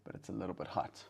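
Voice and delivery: sipping hot tea while talking; slurping. Real, not acted. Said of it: "Excuse my slurping".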